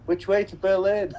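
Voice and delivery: high, laughing mock question; clueless tourist asking. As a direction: ask for directions like a lost tourist, half laughing. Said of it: "I'd just be like".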